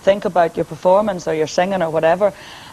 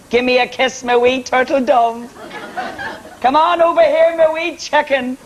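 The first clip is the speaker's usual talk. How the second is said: lightly mock-tender pet-name voice, a bit higher; sweet-talking fella; 5 semitones higher than usual. Singer mimicking a smitten new fella to the girls, mock tender. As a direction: coo it like a new boyfriend, slow and sweet. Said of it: "He calls you all these lovely wee pet names".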